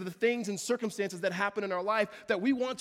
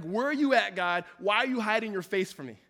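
pleading cry; 2 semitones higher, 5 dB louder than usual. Retold or imitated. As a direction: cry out where are you.

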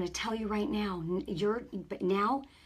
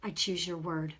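repentance prayer; 2 semitones lower than usual. Shown as a demonstration.

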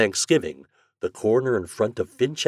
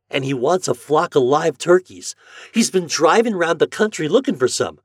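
put-on higher, louder boyish voice; excited farm boy; 8 semitones higher, 7 dB louder than usual. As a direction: explain it all with relish. Homer explains the turkey show.

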